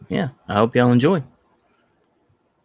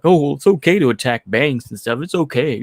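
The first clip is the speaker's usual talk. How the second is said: higher-pitched mock excusing voice; mocking imitation; 4 semitones higher than usual. Mimicking an expat defending the protests, mocking.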